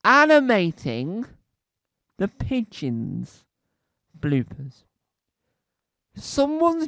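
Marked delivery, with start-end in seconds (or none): 0.0-1.2 animating slow and loud, rising at the end; stressed again. Shown as a demonstration. Hammering the word home to the audience, slow and loud. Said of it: "I'll say it once more".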